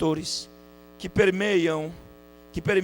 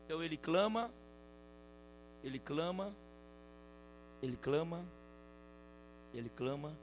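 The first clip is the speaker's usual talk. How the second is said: very soft, low, with a lifted ending; low, patient murmur; hushed repetition; 3 semitones lower, 17 dB quieter than usual. Acted. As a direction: repeat it quietly, leaving a long pause each time. Acting out repeated, unanswered crying out.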